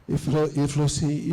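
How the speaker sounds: ordinary talk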